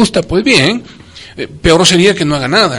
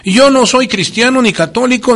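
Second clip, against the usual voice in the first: a lightly voiced objector, pitched up, hand raised; objector's voice; 6 semitones higher than usual. Host imitating a heckler from the audience, a mildly higher objecting voice. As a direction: playfully voice the skeptic who says he isn't Christian. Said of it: "no faltará por ahí alguien que diga".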